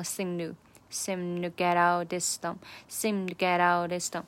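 to barely there, just a quick beat; weak to. Shown as a demonstration. Teacher showing the weak to, to barely there. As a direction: seem to with to tucked in short. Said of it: "这个to是没有什么存在感".

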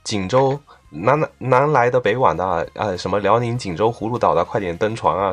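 singsong hawker's call, Jinzhou style; boat hawker calling. Retold or imitated. Imitates Jinzhou boat caller.

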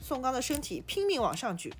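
measured storytelling in short phrases; audiobook-style narrator; story narration. A narrator's reading. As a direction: read the tale aloud, phrase by phrase.

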